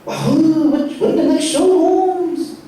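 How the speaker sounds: high-pitched homeboy uncle; excited uncle voice, pitched well up; hood uncle. Retold or imitated. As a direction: play the eager uncle straight from the hood. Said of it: "he's, like, straight from the hood".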